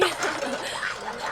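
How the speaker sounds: sly witch snicker; villainous chuckle. Acted. Witch laughs at own slip.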